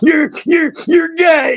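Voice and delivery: mock, very high, choked-up hysterical sobbing. Retelling a phone call from a crying daughter: imitating hysterical crying. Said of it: "she is crying hysterical".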